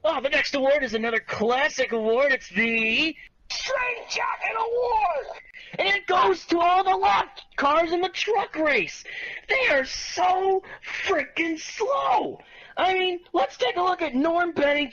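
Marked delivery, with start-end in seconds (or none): 2.3-5.3 slow, drawn-out announcer shout; shouted announcement. Pretend. Announcing the award. 9.8-12.4 slow, stretched exasperated shout. Real, not acted. Ranting about lap cars.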